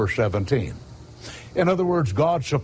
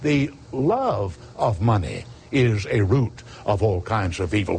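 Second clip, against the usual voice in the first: solemn scripture quote; 4 semitones lower than usual. Acted. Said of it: "He said".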